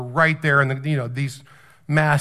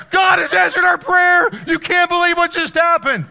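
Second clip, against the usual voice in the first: very high, loud imitation of overjoyed yelling; hammed-up screech of pure excitement; ecstatic shouting; 14 semitones higher, 7 dB louder than usual. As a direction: shout the amazing news at the top of your range. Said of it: "He was like".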